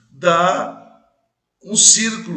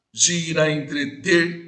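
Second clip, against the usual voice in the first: "Gira entreter" slow with its fourth syllable marked; stress on the fourth syllable; slower than usual. Shown as a demonstration. Teacher to class, showing the fourth-syllable stress slowly. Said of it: "quarta sílaba".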